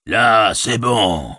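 lent et narquois; nargue-les en traînant; ricanant. Acted. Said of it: "ricanait-il". (orque qui ricane lentement)

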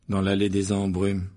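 slow, sombre answer. A narrator's reading. Harry tells Ron where he ended up, sombre. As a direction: admit it gloomily, slowly. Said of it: "d'un air sombre".

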